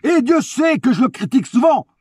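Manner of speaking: hyped-up high praise; escalating comedy rant. Real, not acted. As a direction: cheer him on like a fan. Excited praise of Ramos.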